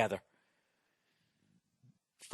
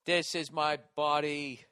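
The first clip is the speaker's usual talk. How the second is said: priest intoning. Retold or imitated. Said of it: "I can't remember how to s".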